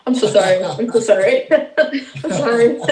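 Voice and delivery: laughing, embarrassed sorry; giggling apologies; flustered apology. Real, not acted. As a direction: apologize while catching your breath. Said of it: "Let me breathe".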